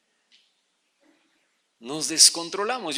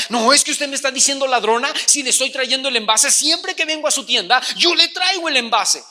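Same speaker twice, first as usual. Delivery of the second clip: indignant customer, a bit louder; mock angry customer; 3 semitones higher, 3 dB louder than usual. Offended customer arguing with the shopkeeper, mock angry. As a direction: protest she always brings the bottle back. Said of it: "estaba pero enojadísima".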